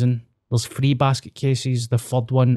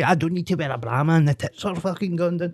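laughing; 4 semitones higher, 4 dB quieter than usual. Retold or imitated. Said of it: "imagine me saying that".

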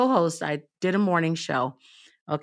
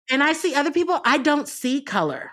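mock well-meaning racist; 6 semitones higher than usual. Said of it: "Can I throw this out here for the, uh, racist roulette".

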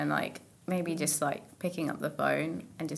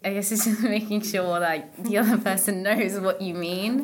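nervous laugh; 3 semitones higher, 8 dB louder than usual. Real, not acted. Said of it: "That was such a nervous laugh".

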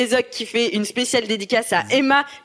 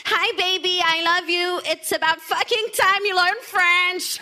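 put-on high, laughing English accent; English accent French; 7 semitones higher than usual. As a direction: read it with a giggly English accent. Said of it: "un accent anglais". (accent anglais en riant)

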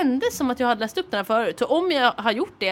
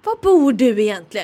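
slow, louder imitation; lightly mimicked prying old lady; nosy old lady; 6 dB louder than usual. Imitating nosy old lady's question.

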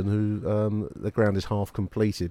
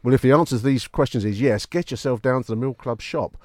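hammed-up movie trailer announcer; cinema advert voice; 3 dB louder than usual. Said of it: "cinema advert voice on for you".

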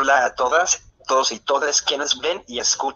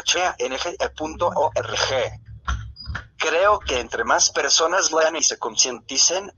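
computer text-to-speech voice. Real, not acted. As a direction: read it like a synthesized voice. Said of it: "esta es mi voz sintetizada". (voz sintetizada de computadora)

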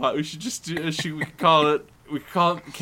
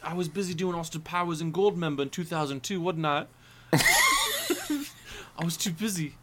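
higher, soft mock-Cockney; Michael Caine; 4 semitones higher, 4 dB quieter than usual. Actor explaining why he missed the films, mock-Cockney. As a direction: make excuses as an English film star. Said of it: "Why wasn't he in any of the Harry Potter".

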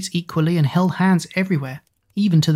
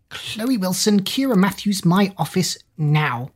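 stern headmistress, higher and slow; booming; 4 semitones higher than usual. Acted. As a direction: boom it out like a foghorn. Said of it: "voice boomed like a foghorn".

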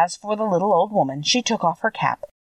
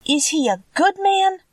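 higher, a touch of anxiety; anxious; 13 semitones higher than usual. Acted. Dorothy asking the witch about Oz, mildly anxious. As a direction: ask with mild worry. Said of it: "inquired the girl anxiously".

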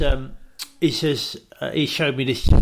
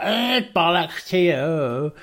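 Kim voice; 3 semitones higher, much slower than usual. Retold or imitated.

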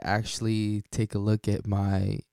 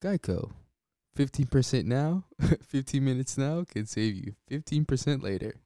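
a lightly voiced Geico ad slogan, pitched higher; imitating Geico ad; 5 semitones higher than usual. Host riffing on an insurer's ad, mock ad voice. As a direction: toss off the Geico jingle in mock ad style. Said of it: "my policy with Geico".

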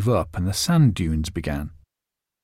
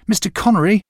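higher and louder, urgent call; 9 semitones higher, 4 dB louder, faster than usual. A narrator's reading. Boy calling a second time after Connery, louder and higher. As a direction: call again as he walks away. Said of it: "I called to him".

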